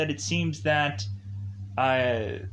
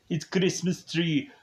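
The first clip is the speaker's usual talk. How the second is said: hammed-up Arnold Schwarzenegger accent; lightly imitated Austrian Arnold accent; 3 semitones higher than usual. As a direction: clip the R's like a mock Arnold. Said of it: "I guess that's my Arnold accent".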